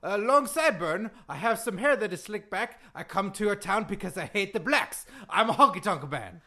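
put-on indignant accented recital of lyrics; Iron Sheik. Wrestler repeating his lyrics to the host, indignant accent. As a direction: recite the song in thick broken English. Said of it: "that Iron Sheik impression".

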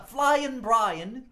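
put-on loud, high, drawn-out Japanese accent; slow announcer shout in a mock Japanese accent; hammed-up Japanese accent, stretched out. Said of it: "it's a Japanese accent".

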